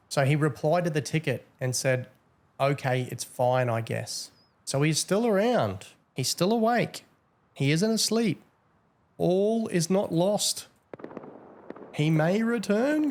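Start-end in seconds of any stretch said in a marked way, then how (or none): 2.6-4.3 mock sulky read. Reading the banned player's reply. 4.7-13.1 much higher, slow, drawn-out gloating; gleeful excitement. Acted. Player still online, streamer gloats.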